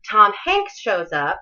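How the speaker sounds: offhand, slow and casual; shrugging mention of a big moment; nonchalant. Shown as a demonstration. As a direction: toss it off like it's nothing. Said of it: "You can't be nonchalant about that".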